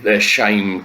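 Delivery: emphatic rant. Real, not acted. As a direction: hammer home all leaders, slowing down. Ranting emphasis on all leaders.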